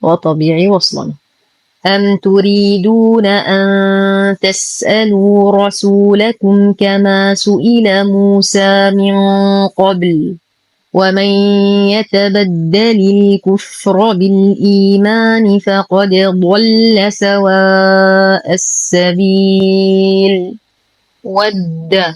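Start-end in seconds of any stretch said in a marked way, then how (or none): 1.9-20.5 slow, measured tajwid chanting; Quran recitation. Shown as a demonstration. Teacher recites the whole verse, slow tajwid chant. 21.2-22.0 ود with thin w and a firmly held double د; light, doubled dal. Shown as a demonstration. Teacher demonstrates, light doubled د in ود. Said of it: "نرقق الواو والدال ونشد الدال".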